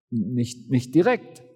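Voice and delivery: "Nicht, nicht direkt" zögernd, ausweichend, am Ende leicht fragend; etwas betreten. Acted. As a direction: kleinlaut zugeben, dass es nicht geklappt hat. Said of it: "erwiderst du etwas betreten". (Jünger gesteht den Kollegen kleinlaut)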